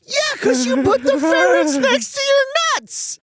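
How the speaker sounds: high, disbelieving exclamation; incredulous outburst. Real, not acted. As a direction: blurt it out in disbelief. Incredulous outburst after clip.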